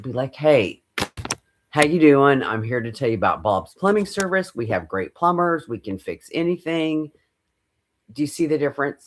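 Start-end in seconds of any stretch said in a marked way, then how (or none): 0.3-7.1 natural. Shown as a demonstration. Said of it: "you'll be very natural".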